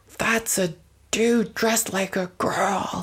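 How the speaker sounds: put-on hostile, aggressive, direct barking shout. Recounting a man who shouted at you, imitating his aggressive shout. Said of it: "he just shouts at me at the top of his lungs".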